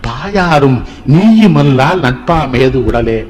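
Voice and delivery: very slow, drawn-out verse delivery; Pattinathar verse recital. Retold or imitated. Speaker quotes a saint's verse on the body, slow solemn recitation. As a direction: recite slowly, lingering on each phrase. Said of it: "பட்டணத்தார் சொல்றாரு".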